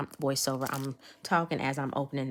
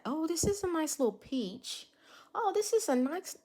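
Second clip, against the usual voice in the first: delighted; 11 semitones higher, 4 dB quieter than usual. Real, not acted. Delighted by peach glitter color.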